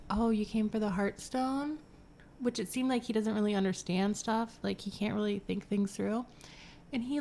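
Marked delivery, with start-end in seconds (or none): 0.1-1.8 light puzzled gargoyle, rising at the end; a hint of a dim creature's question; mock gargoyle. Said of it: "the gargoyle literally goes".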